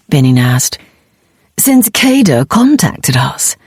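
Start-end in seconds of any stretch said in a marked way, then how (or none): 1.6-3.6 hushed, slow, breathy whisper. Acted. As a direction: whisper the secret. Character hushed reveal.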